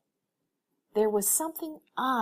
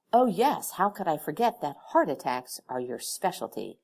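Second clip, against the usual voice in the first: sarcastic; 5 dB louder than usual. Acted. Sarcastic jab.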